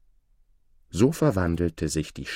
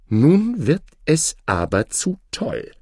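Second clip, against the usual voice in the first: indignant, higher-pitched exclamation; angry outcry; 7 semitones higher than usual. A narrator's reading. Oda has had enough of the snake's demands, angry. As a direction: hit the first word hard, fed up. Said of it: "rief Oda zornig".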